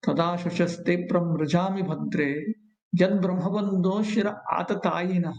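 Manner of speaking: slow devotional recitation; verse recitation. Acted. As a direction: chant the Sanskrit verse, measured and steady.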